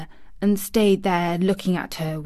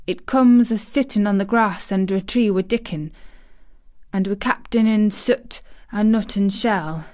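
a light broad Yorkshire lilt, lightly voiced. Girl teasing the sick boy in broad Yorkshire. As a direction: lean into the Yorkshire vowels, as broad as Mary can. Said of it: "She said it as broadly as she could".

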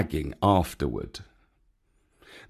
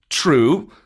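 grudging panther agreement, louder; Bagheera; 4 semitones higher, 5 dB louder than usual. Acted. Bagheera concedes Baloo's point, firm and louder. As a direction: concede it firmly before the reproach.

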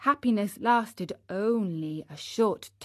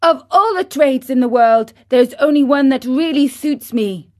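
put-on fast, louder brash boy; impatient; 4 semitones higher, 8 dB louder than usual. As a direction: rattle it off impatiently. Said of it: "beginning to lose patience".

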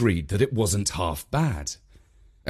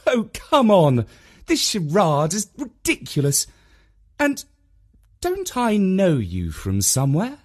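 mum scoffing; 7 semitones higher than usual. A narrator's reading.

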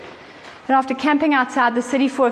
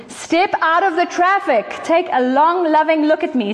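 gentle voice of God; 7 semitones higher than usual. Acted. Quoting God's invitation to rest.

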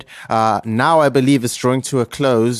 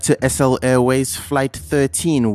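pilot announcement. Acted. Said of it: "this is your Captain Slu Paho speaking".

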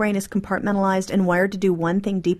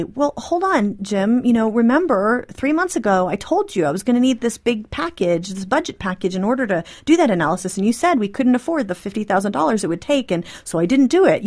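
mildly defensive, voice rising as you justify yourself; 2 semitones higher than usual. Acted. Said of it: "your voice is rising and you're getting this defensive sound".

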